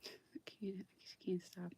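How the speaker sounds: a hushed aside to yourself; rueful whisper. Real, not acted. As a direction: whisper it as a sheepish confession. Admits ranting, can't stop.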